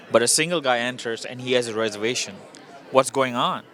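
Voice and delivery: punchy movie-promo announcement, each detail set apart; teaser pitch. Real, not acted. Filmmaker plugging his screening to the interviewer, teaser pitch.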